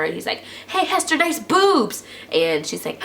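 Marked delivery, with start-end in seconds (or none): 0.7-2.0 high-pitched mock holler; imitated yell. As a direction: call out to her in a much higher voice. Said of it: "yells at her".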